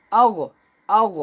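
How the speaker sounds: "আগ" said round-mouthed, with a heavy throaty Ghain ending; rounded heavy sound. Shown as a demonstration. Teacher drilling a letter for learners, "আগ" said with rounded mouth. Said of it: "এটাও গোল করে বলতে হবে".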